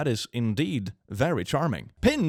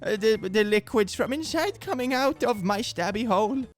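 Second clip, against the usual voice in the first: high, hammed-up weepy wail; exaggerated tearful whine; mock sobbing; 10 semitones higher than usual. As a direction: sob your way through every word. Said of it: "snuggling the pillow and sobbing".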